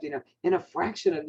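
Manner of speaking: fraction given lively inflection; inflection demo. Shown as a demonstration. Coaching agents, showing inflection on fraction. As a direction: lean into fraction with some lift. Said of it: "you hear that? I'm just putting inflection into it".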